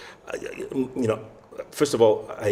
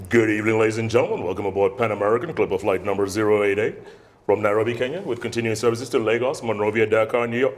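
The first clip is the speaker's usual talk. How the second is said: airline PA announcement repeated. Shown as a demonstration. Trainee repeating the announcement for the instructor. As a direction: do the PA read again, steady. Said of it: "let me try it again".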